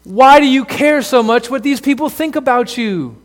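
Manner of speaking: future self pleading. Acted. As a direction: call back to your younger self, urging hard. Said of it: "would come back and say to the you now".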